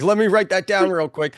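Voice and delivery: high, loud burst of excitement; eager reaction. Retold or imitated. Retelling an eager sudden reaction.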